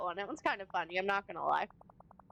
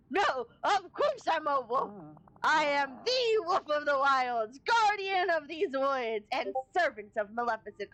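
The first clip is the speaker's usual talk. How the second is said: mock wolf voice; 3 semitones higher than usual. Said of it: "very rough on your throat".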